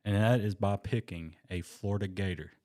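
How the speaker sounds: slow, grand draft-day announcer; mock-solemn pick announcement over music. Friend cues music, he announces the pick slowly. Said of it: "you can play the music if you want".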